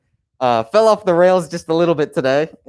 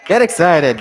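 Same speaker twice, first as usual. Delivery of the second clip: higher, louder call to the crowd; rally the room for the next chair; hype call; 4 semitones higher, 4 dB louder than usual. Real, not acted. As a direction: pump up the audience. Host hyping up next speaker.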